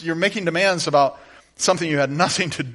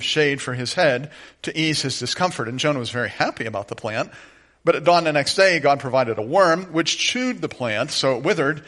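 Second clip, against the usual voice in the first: scripture reading; 2 semitones lower than usual. Acted. Reads scripture passage.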